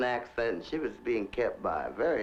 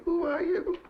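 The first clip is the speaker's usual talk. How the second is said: guard's challenge. Retold or imitated. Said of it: "the guards used to say".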